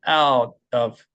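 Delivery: out of, slowly separated; slow demonstration. Shown as a demonstration. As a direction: say 'Out of' slowly, finishing out before of. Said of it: "천천히 얘기를 하는 거죠". (Out of를 천천히 또박또박)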